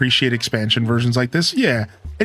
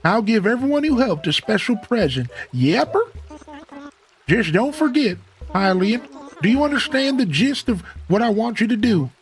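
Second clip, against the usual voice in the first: put-on old tortoise character; 12 semitones higher than usual. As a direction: play a chummy old tortoise mayor. Voices Tortimer in the game.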